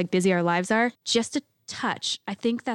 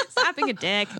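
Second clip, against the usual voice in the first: laughing repeat. Real, not acted.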